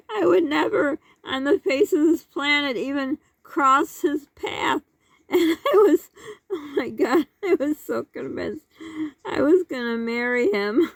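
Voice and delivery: words breaking into giggles; laughing through words. Real, not acted. Fond giggling throughout. Giggling while retelling old crush.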